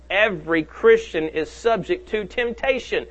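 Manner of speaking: "every" stressed, spoken slowly and deliberately. Shown as a demonstration. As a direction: lean on "every" in "every Christian", the rest slow. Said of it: "may I emphasize the word every".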